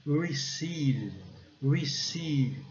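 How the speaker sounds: "Receive" starting on a rounded R, as if after U; puckered English R. Shown as a demonstration. Teacher demonstrates the R, careful pronunciation. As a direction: round the lips into the R of "Receive", long ee. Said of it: "O R a gente faz um biquinho".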